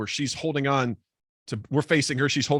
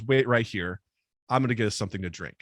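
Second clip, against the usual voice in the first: lower, fast flirty purr; low seductive woman; 6 semitones lower, faster than usual. Retold or imitated. Woman purring to narrator before fetching drinks, low and quick. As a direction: play her low and coy, rushing the line. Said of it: "She goes".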